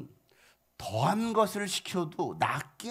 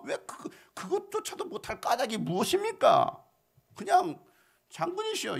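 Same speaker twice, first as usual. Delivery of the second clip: urgent pleading shout; 10 semitones higher than usual. Acted. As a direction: push him hard to just obey. Servants urging the general, preacher heated.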